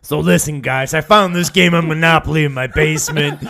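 cheerful, loud pushy doll. Pretend. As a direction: pitch it like an eager talking doll. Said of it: "The doll suddenly is long-winded".

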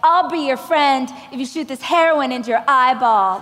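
lightly voiced over-the-top cheerleader; hint of TV melodrama; cheesy cheerleader. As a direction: ham up the after-school special line. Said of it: "the captain of the cheerleading team would be like".

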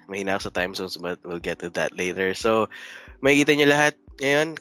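lightly voiced show host opening; show host intro. Host opens the morning show segment, light announcer voice.

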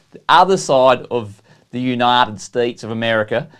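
lightly put-on, clumsy American accent; mock American accent, badly faked. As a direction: have a joking go at an American accent. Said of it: "How's that for a bad accent?".

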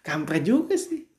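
laughing it out again; chuckling through the words. Real, not acted. Repeating it while laughing.

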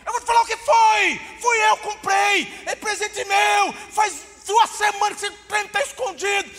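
high, loud furious yell, each word hammered slowly; a boy yelling at his mother about his stolen gift, enraged; angry shout. Retold or imitated.

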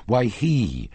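a jealous lover shouting down his rival; losing his temper. Acted. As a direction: rage at her, building accusation. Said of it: "at once lost his temper".

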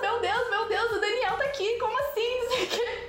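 high, laughing, giddy repeated cries; starstruck squeal. Retold or imitated. Fan spotting the band drummer on the beach, squealing. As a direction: gush like a fan who just spotted her idol. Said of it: "eu falei".

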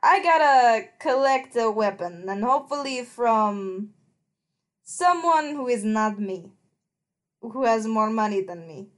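measured southern character voice; put-on southern accent, with pauses. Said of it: "a southern accent. I can't do anything else".

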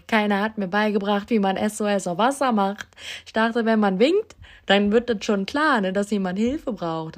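upset tourist telling off the instructor; exasperated protest. Retold or imitated. Retold outburst at surf teacher.

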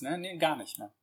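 ordinary talk, nothing marked

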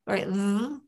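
"th" as one voiced sound; sounding out words. Shown as a demonstration. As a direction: give "th" as a single voiced sound. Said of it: "T H says".

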